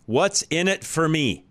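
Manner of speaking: What's in it for me said slowly, each word set apart; slow, spell out What's in it for me; spelling out whiffum. Shown as a demonstration. Host explaining the acronym whiffum to listeners, slow and spelled out. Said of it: "That's what whiffum".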